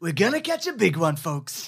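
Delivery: light politician parody, dropping down at the end; Trump. Acted. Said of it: "read by Trump".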